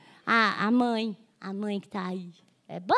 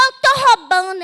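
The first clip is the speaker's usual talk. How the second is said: loud, blunt declaration; robber's announcement; 4 semitones higher, 8 dB louder than usual. Retold or imitated. Robber telling her he is robbing, loud and blunt. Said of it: "Ele falou".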